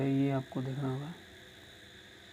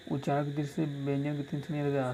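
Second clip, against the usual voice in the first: rattled off faster the second time; quick repeat; faster than usual. Shown as a demonstration. Teacher re-reads the question to students, quickly. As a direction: repeat the question briskly for dictation. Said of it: "first reading of the question".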